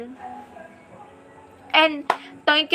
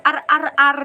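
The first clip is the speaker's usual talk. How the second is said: mock Thai accent. Shown as a demonstration. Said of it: "magsalita ang Ilocano sa accent ng Thailand".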